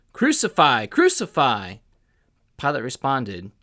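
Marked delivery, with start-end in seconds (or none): 0.1-1.8 crowd shouting. A narrator's reading. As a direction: call out as an insistent mob. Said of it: "they shouted".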